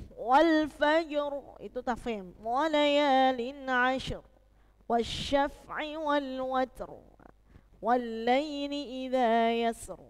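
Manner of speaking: slow chanted recitation of Al-Fajr; Quran recitation. Shown as a demonstration. Teacher reciting Al-Fajr verses to the class, slow chant. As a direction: recite slowly, ro heavy. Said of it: "itu teba-, tebal".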